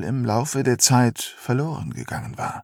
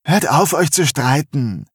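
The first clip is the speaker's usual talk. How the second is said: rufend; 3 semitones higher, 3 dB louder than usual. Acted. Bonnie geht dazwischen.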